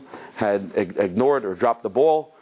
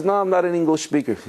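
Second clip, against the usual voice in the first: higher-pitched mock protest; protesting refusal; 8 semitones higher than usual. Reluctant uncle refusing the rabbi's request to speak, high protest. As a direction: wave off the request in a raised pitch.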